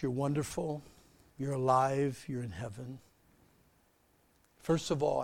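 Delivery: earnest, unhurried pastoral prayer; closing prayer. Acted. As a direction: pray over the church family humbly.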